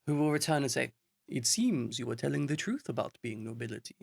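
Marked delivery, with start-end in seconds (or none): 1.3-4.0 put-on a light, half-held posh English accent. Guard reporting to the noble, lightly posh accent. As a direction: GM voicing the guard in a slightly posher accent. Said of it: "I notice you have an accent now".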